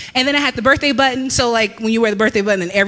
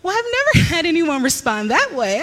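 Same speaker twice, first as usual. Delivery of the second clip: Cinderella; 5 semitones higher than usual. Retold or imitated. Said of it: "And she's like".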